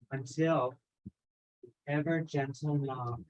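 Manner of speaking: measured spoken-word delivery, phrase by phrase; poised theatrical recital with deliberate pauses; dramatic monologue reading. Acted. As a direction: read it as a stage monologue, savouring each item. Performs her written monologue.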